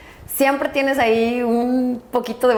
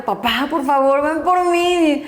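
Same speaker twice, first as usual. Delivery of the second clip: desperate plea; 3 semitones higher, slower than usual. Retold or imitated. Exhausted intern begging her father on the phone, slow and pleading. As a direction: stretch it out like an exhausted, broken daughter. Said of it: "yo así destrozada".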